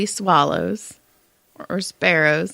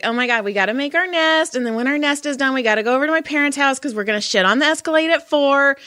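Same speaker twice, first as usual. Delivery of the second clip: chattering female bird; 4 semitones higher, faster than usual. Retold or imitated.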